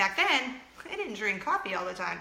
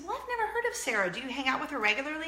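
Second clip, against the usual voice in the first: much higher and fast, lightly acted; quick mom question; 5 semitones higher, faster than usual. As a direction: rattle off a curious mom question. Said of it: "I said".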